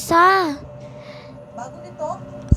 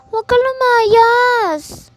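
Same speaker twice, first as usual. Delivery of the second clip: pleading; 7 semitones higher, slower than usual. Acted. Begging sibling not to leave.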